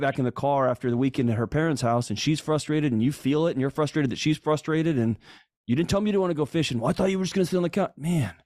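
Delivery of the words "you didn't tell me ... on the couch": mock bickering. Acted couple quarrel, rapid.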